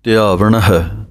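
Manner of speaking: slow ਧਿਆਵਣ, every letter sounded; careful spelled-out pronunciation. Shown as a demonstration. Teacher shows students how to say ਧਿਆਵਣ, slowly and carefully. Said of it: "ਇਹ ਪਾਠ ਇਸ ਤਰ੍ਹਾਂ ਬੋਲਣਾ ਹੈ".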